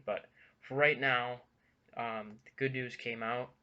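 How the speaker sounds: slightly winded, short of breath. Real, not acted. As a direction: talk while catching your breath. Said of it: "I'm, like, out of breath".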